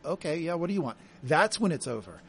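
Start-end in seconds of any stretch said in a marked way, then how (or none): 0.1-1.0 indifferent ex. Retold or imitated.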